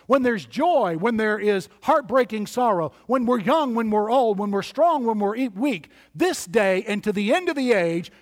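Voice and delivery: driving sermon litany, each phrase punched; rousing preaching. Real, not acted. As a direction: preach it in rhythmic contrasting pairs.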